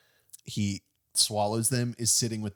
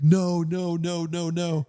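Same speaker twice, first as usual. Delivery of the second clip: high, loud wailing no; imitating her crying denial, much higher; mock crying no; 8 semitones higher, 5 dB louder, slower than usual. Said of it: "crying, like".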